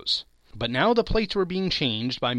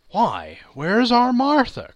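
high, loud, slow calling out; cheerful father's cry; 9 semitones higher, 8 dB louder, slower than usual. A narrator's reading. Father looking round for his daughter, high slow call. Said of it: "cried Bob Cratchit, looking round".

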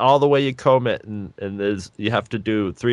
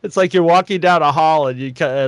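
normal talking voice

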